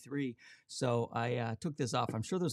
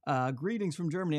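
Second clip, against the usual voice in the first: mock German accent; 2 semitones higher than usual. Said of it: "that's not a German accent at all".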